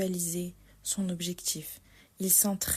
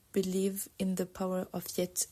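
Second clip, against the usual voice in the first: a light, playful English accent. Shown as a demonstration. Quoting her office motto, light English accent. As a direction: read the quote with an English accent. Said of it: "sur un super accent anglais".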